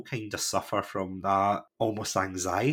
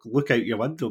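ordinary talk

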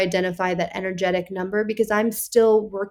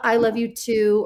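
casual reply. Shown as a demonstration.

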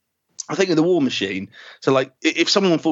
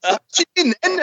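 high mock curious voice; high put-on Ben; Ben impression; 13 semitones higher, slower than usual. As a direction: ask it bluntly. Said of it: "he goes".

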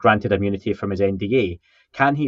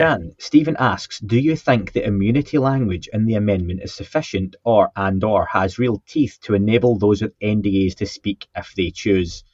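lightly put-on posh reading voice. Shown as a demonstration. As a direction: read it out with a hint of mock-posh. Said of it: "I'll read it in a, my posh voice".

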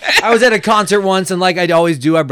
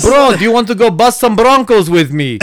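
higher mock Russian accent; Russian agent trying cowboy slang, accent showing; 4 semitones higher than usual. Russian agent inviting a bro to ride broncos, mock accent. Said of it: "they just can't hide their accents".

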